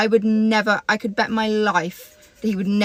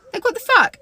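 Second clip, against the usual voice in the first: higher, louder exasperated outburst; angry outburst; 13 semitones higher, 5 dB louder than usual. Retold or imitated. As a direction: let the retold anger burst out on the last words. Confronting the girl at the bar.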